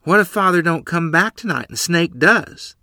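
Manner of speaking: put-on frightened child. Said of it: "her face white with fear".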